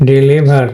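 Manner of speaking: ডেলিভার with weight on the middle লি, final r dropped; stress in the middle. Shown as a demonstration. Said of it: "মাঝে এখানে stress পড়বে". (ডেলিভার, মাঝে জোর, শেষে র নেই)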